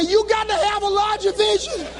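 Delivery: high, comic near-tears preaching; heartbroken speechifying. Retold or imitated. Dumped speaker back before cheering crowd, heartbroken. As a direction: push the speech out through mock heartbreak.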